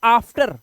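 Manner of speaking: "after" with a long open aa first, आफ्टर; "after" said as आफ्टर, first vowel as in father. Shown as a demonstration. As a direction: open "after" on a broad aa sound. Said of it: "इसे हम पढ़ते हैं".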